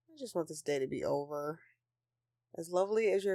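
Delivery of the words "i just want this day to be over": weary sulk. Acted. Sulking about Christmas.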